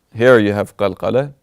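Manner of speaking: ordinary talk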